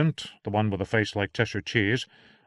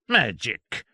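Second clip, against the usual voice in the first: scornful sneer at magic; mocking physician; contemptuous; 4 semitones higher than usual. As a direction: pour scorn on the idea. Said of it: "cried Doctor John contemptuously".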